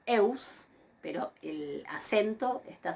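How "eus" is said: eus as one gliding syllable; pronunciación modelo. Shown as a demonstration. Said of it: "ahí ven cómo yo pronuncio". (eus, diptongo en una sílaba)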